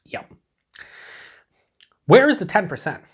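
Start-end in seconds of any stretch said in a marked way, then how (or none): 2.1-3.0 sudden loud, high yell at the can; blurting a loud yell at the beer can; real yell. Real, not acted. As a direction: shout it out in real surprise. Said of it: "Why am I yelling?".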